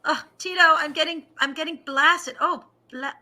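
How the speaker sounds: high, put-on pop star voice; a famous pop singer. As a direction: muse aloud in a high mock-star voice. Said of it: "He's like".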